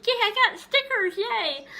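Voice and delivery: put-on squealed high and loud, like a thrilled kid; imitating mom's delight. Mom over the moon about stickers, squealing happily. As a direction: act out her pure joy over a tiny gift.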